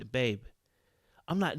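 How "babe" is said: calm voice. Shown as a demonstration. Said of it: "you calm the voice".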